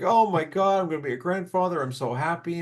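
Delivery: retold burst of joy; overjoyed dad. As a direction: imitate a thrilled father-to-be-grandpa. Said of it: "my crazy old man was so happy".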